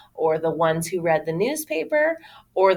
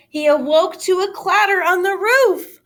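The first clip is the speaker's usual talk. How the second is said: higher, louder suspense; dramatic narration; 12 semitones higher, 6 dB louder than usual. A narrator's reading. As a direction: build the excitement.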